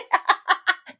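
high delighted cackle; a bingo winner cackling in delight; gleeful laugh. Acted. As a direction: laugh in triumph. Victory laugh.

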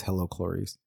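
softly imitated villain greeting; a hint of a hushed villain voice; Hannibal Lecter. Showing what the killer never says, softly imitated. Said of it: "he never says".

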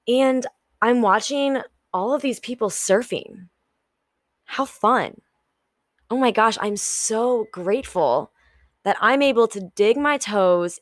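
bright, cheerful gratitude; upbeat grateful. Shown as a demonstration. Showing viewers the positive mindset, cheerful. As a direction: sound glad to be at the beach. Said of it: "Which one would you choose".

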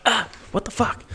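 high, squealing wet-sock shock; squeaky disgust. Retold or imitated. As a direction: yelp as a cold wet sock soaks through. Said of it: "you're like".

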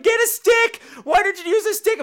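high, loud mock scolding; imitating a bossy bystander; scolding stranger. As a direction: nag like a know-it-all.

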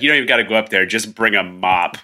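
a hint of a deadpan cop, slowing down; lightly voiced cop. Podcaster quoting movie cops at the crime scene, lightly voiced cop. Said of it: "do cops talk like this".

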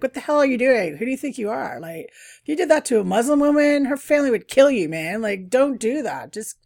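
replaying a furious telling-off; retold yelling. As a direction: tell him off hard, indignant. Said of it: "started yelling at him".

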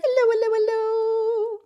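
high, rapid-fire hellos; quick, high-pitched greeting; as fast as possible. Shown as a demonstration. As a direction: rattle them off without a gap. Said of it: "as fast as we can".

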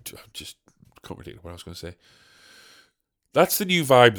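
usual speaking voice

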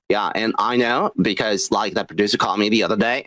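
mocking a fake LA industry voice; fake Hollywood voice. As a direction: ham up a phony Californian name-dropper. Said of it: "you can hear how fake they fucking sounded".

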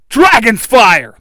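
high, drawn-out attack call; battle-cry yell. A narrator's reading. Red Ranger unleashing flames on the fighters, loud battle cry. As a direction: shout it like a special move. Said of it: "the Red Ranger yells".

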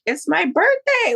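high, drawn-out retold excitement; gleefully stretched words; excited announcement. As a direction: celebrate it in a slow, high voice. Excited answer to uncle, retold.

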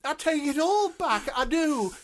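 high, loud, near-tearful pleading; desperate begging. Acted. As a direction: beg frantically to save the phone, voice cracking. Agent keeps begging Rob.

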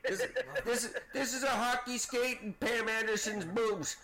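high, slow words broken by laughter; giggling as he pitches the silly carving; laughing. Real, not acted. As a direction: laugh through the joke. Joking about carvings, laughing.

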